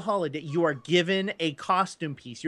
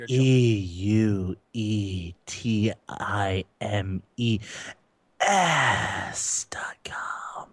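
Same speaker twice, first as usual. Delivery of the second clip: much lower, very slow spelled out; creepy slow spelling; 11 semitones lower, much slower than usual. Pretend. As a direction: drag the letters out creepily. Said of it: "Oh, it's so creepy".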